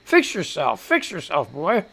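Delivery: gruff, hoarse throat; rough congested voice; gruffy voice. Real, not acted. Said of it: "I'm all gruffy".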